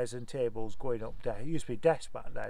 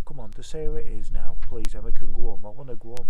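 loud pleading; 3 semitones lower, 14 dB louder than usual. Retold or imitated.

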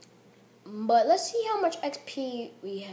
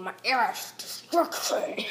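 whispered echo; 4 dB quieter than usual. Real, not acted. Player whispering the game's promo line back to himself.

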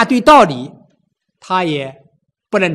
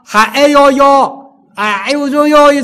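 mock cries of pain; 4 semitones higher, 3 dB louder than usual. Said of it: "这么喊着".

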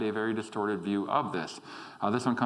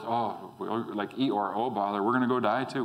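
lower, gloomy grumble, lightly voiced; mopey Doubting Thomas; 3 semitones lower than usual. Thomas grudgingly agreeing to go die, mild gloomy mock. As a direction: sulk it like a reluctant doubter. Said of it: "in Doubting Thomas's voice".

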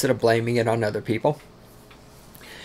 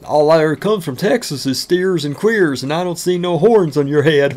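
put-on voice of a sneering Coloradan, a bit louder; mimicking a taunter; 3 semitones higher, 4 dB louder than usual. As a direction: toss it off like a smug local jab. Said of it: "You know how many times I fucking heard that?".

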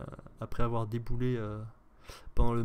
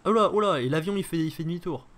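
surprised; 5 semitones higher, 7 dB louder than usual. Real, not acted. Plane suddenly turns around.

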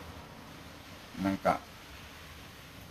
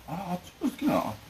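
mock customer voice; 8 semitones higher than usual. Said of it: "って言うんだよね".

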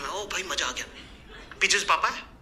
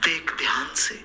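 loud stage whisper; 4 semitones lower, 3 dB quieter than usual. Retold or imitated. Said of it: "इतनी जोर से कान में बोला है".

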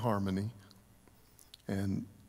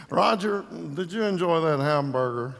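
a higher, louder mimic of an old friend, laughing through it; playful higher friend voice with a laugh; imitating Les; 4 semitones higher, 3 dB louder than usual. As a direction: do a fond impression of a buddy, barely holding back a laugh. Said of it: "we talked like Les the whole day".

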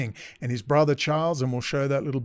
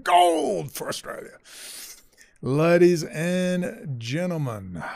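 mock sports announcer; 3 semitones higher, slower than usual. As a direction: shout it like a winning commentator. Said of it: "over fifty in Australian to understand".

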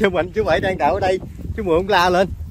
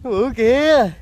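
raised, loud voice, really thrilled; excited amazement; 5 semitones higher, 4 dB louder, slower than usual. Real, not acted. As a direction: exclaim over a huge catch. Both marvel at the huge snake. (trầm trồ to, đầy phấn khích)

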